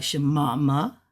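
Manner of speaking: "shemama" run together, rising at the end; question tune. Shown as a demonstration. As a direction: join "shemama" into one questioning word. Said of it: "If you were to do it together".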